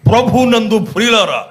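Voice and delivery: mock announcer attempting a bass voice; put-on bass voice. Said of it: "బేస్ voice పెట్టి".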